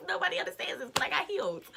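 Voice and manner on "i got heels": hushed, whispered aside; whispered repeat. Retold or imitated. Explaining to listeners who don't understand, whispered repeat. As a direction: drop to a whisper for comic effect. Repeats it after the shouted take.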